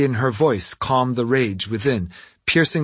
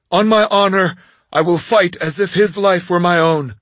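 loud, higher honorable noble; proud noble; 5 semitones higher, 3 dB louder than usual. Acted. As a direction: vow it with noble pride. Noble swears protection.

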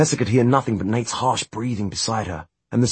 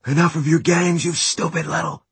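angry; 8 semitones higher than usual. A narrator's reading. Brother snaps at Tessa.

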